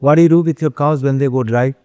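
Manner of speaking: slow, deliberate quoted question; lightly voiced foreign visitor asking; quoting a visitor. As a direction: spell out the visitor's question slowly. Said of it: "लोग आके पूछेंगे".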